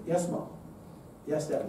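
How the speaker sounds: put-on softly obedient child's reply; right attitude. Shown as a demonstration. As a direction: answer low and meek, like a well-behaved child. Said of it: "with the right attitude".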